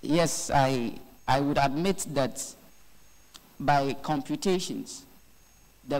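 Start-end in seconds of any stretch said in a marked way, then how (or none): none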